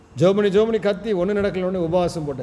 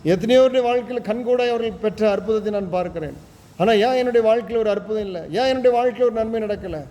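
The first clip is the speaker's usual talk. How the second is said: mock lament; 3 semitones higher than usual. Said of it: "அநேகருடைய புலம்பல் இதுதான்".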